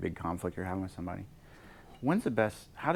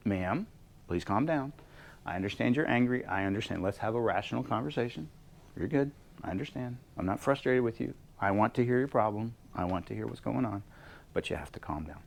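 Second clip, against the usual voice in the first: calming voice; 2 semitones higher than usual. Shown as a demonstration. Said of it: "if you have a really angry customer".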